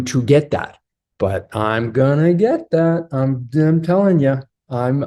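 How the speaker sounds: easy, reassuring, lightly smiling; with a smile. Shown as a demonstration. Husband calmly reassuring his wife he is committed, with a smile. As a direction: reassure her gently with a smile in the voice. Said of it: "say it with a little bit of a smile".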